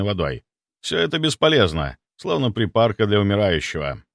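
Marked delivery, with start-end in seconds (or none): none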